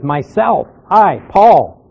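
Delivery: "Myself", "I" and "Paul" each weighted, with "Paul" strongest; falling emphasis on "Myself" and "Paul"; emphatic self-naming. Shown as a demonstration. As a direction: set "Myself" apart, then land on "I, Paul". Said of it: "he's emphasizing there".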